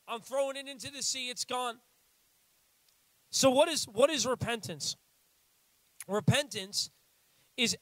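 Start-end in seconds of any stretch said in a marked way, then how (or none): 3.3-5.0 booming question to the crowd; loud preaching question. Real, not acted. Preacher booming the question to the congregation. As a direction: call it out from the pulpit.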